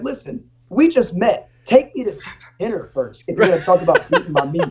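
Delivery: mock sass. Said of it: "I was like".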